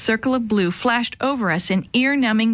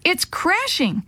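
stunned fear; 8 semitones higher, slower than usual. Acted. Mother in shock, slow.

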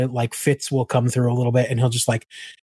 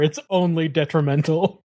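usual speaking voice

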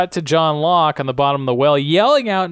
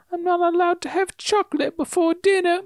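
put-on much higher little-girl voice; childish voice. Charlotte's dying words, in a little child's voice. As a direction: say it like a small child. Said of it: "in a childish voice".

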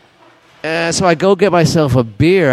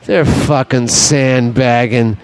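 lowered, slow knowing growl; imitating Bob; 4 semitones lower, slower than usual. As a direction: lay it down low and slow like an insider. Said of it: "He goes".

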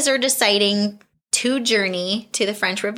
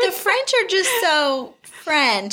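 higher, slow, lightly voiced stuffy butler; Carson impression; 9 semitones higher, slower than usual. Mimicking Carson grumbling about the French, lightly voiced. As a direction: play a huffy old butler, a touch hammed. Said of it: "he says that in another part".

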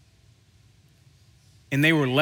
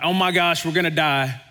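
higher, louder mock panic; freaking out; 3 semitones higher, 4 dB louder than usual. Disciples panicking to Jesus in the storm, a hammed-up frightened cry. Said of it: "the disciples are just freaking out".

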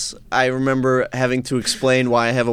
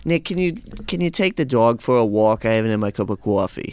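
imitating mom; 2 semitones lower than usual. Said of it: "she was very much like".

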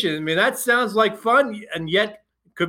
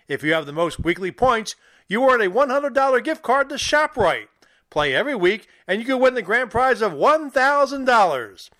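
punchy podcast announcer; upbeat scripted read with big pitch swings; promo and ad read. Acted. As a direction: sell it like a sports radio sponsor spot. Reads show promo and sponsor ad.

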